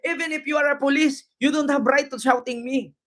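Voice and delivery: lightly mimicked quarrel with a guard; mock protester. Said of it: "Inaway yung security guard sa Senado". (kunwaring pakikipag-away sa guwardiya)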